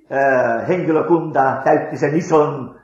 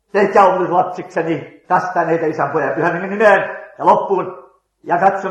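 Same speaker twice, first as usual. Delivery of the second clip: reading scripture aloud; 5 semitones higher than usual. Retold or imitated. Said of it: "luen kuulolla äänellä".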